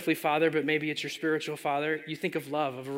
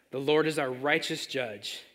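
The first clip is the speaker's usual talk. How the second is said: slower, weighty repeat; slow restated emphasis. Acted. Preacher repeats the line slowly for the congregation.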